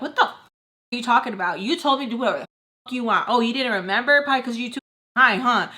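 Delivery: re-enacted heated back-talk; cussing mom out. Daughter cussing out her mama, mildly heated retelling. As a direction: throw accusations at mom with a touch of heat. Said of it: "So I start cussing out my mama".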